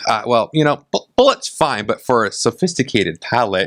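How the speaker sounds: mildly snooty, condescending retelling; douchey store clerk. Retold or imitated. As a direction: imitate a smug whiskey snob, lightly. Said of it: "make that more douchey".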